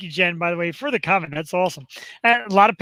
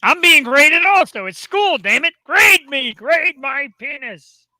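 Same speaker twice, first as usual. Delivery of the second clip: mock pleading; 7 semitones higher, 5 dB louder, slower than usual. Comic pleading to be graded.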